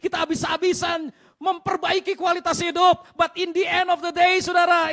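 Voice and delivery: loud, high, drawn-out sermon cry; impassioned shouted preaching; full-force preaching. Real, not acted. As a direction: hammer it out to the whole congregation.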